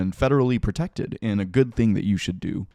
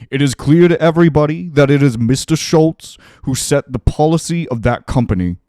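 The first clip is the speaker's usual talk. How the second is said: loud, raised, slightly slowed politician impression; emphatic speechifying impression, pitched up and projected; Bernie; 4 semitones higher, 6 dB louder than usual. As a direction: declaim it loudly like an indignant senator on the stump. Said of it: "should I do my Bernie impression?".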